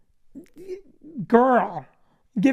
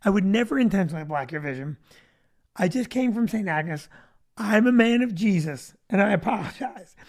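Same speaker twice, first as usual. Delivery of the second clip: soft sincere apology; 3 semitones lower, 4 dB quieter than usual. Retold or imitated. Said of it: "I rolled my window down and I said".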